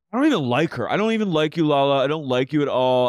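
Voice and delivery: retold tantrum. Retelling his tantrum.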